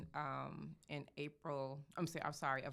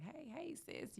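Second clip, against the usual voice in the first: very high, soft imitation of a tiny voice; little tiny voice; 13 semitones higher, 5 dB quieter, slower than usual. Client greeting the makeup artist from the porch, tiny voice. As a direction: mimic her with a tiny, high-pitched hello. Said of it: "in her little tiny voice".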